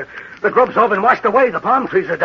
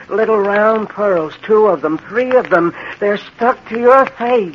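delirious horror; 3 semitones higher than usual. Acted. Delirious man sees bewitched pearls.

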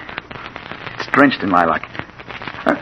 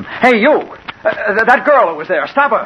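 high urgent shout to a stranger; yelling to a window washer to stop the girl; 12 semitones higher, 3 dB louder than usual. Acted. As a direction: call out in alarm, loud and high.

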